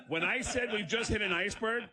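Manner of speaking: high, amused protest in own voice; laughing exasperation. Real, not acted. Comic defending his prank announcement, exasperated.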